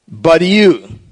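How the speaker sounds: "you" leaned on with a fall; stress on you. Shown as a demonstration. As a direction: mark "you" as the contrasting group. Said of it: "are emphatic in the original".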